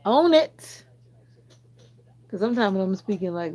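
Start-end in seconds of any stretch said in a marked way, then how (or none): 0.1-0.8 loud, high, laughing burst; laughing exclamation. Real, not acted. Streamer repeating a chat phrase, laughing loudly. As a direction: blurt it out through a laugh.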